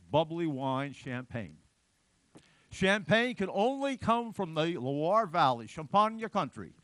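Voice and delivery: a hammed-up Italian accent for the French demand. Lecturer voicing French demand in mock Italian accent. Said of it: "I said that with an Italian accent".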